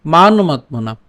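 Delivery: measured Sanskrit line with pauses between phrases; teacher's careful shloka reading; verse recitation. Shown as a demonstration. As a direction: recite deliberately, lifting the phrase endings. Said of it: "আমি আবার প্রথম লাইনটা বলি".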